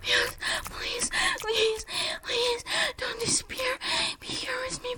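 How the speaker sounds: high pleading whisper; trembling whisper. Acted. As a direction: beg in a shaking hush.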